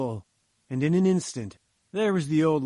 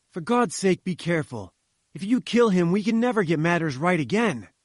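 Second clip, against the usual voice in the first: raised, pleading warning; urgent cry; 3 semitones higher, 3 dB louder than usual. Acted. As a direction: shout it out in alarm. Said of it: "I cried".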